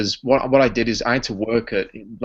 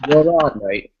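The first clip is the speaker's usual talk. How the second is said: "You all right, mate?" in London accent, higher and louder; 6 semitones higher, 5 dB louder than usual. Shown as a demonstration. Brit showing Americans how London says "You all right, mate?". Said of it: "if you were from London".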